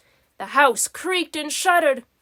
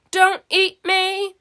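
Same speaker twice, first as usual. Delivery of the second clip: pleading; 5 semitones higher, slower than usual. A narrator's reading. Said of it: "pleaded Garfield".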